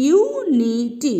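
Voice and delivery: ইউনিটি slowly, starting with a clear ইউ sound; drawn-out model word. Shown as a demonstration. Teacher modeling ইউনিটি slowly for students. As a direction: stretch ইউনিটি, yoo at the start. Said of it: "ইউ উচ্চারণ করছি".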